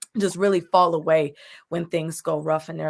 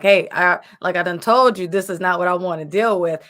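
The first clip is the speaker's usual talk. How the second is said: louder, exasperated complaint; fed up, telling God off, louder; agitated with God; 6 dB louder than usual. Retold or imitated. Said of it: "maybe use the word agitated".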